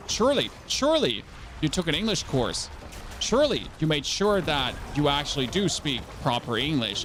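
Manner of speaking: mock pleading, punching each "surely"; mock incredulity. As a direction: insist in mock disbelief to an imagined politician. Mock pleading with an imagined politician.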